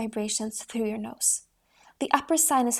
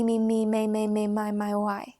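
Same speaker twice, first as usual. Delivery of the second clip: resonant me chain. Shown as a demonstration. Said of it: "Repeat the me".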